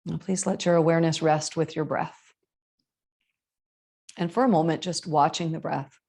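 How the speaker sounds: measured yoga teacher voice, long pauses; spacious, evenly paced breathing guidance; guided meditation. Acted. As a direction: guide them into the breath, unhurried.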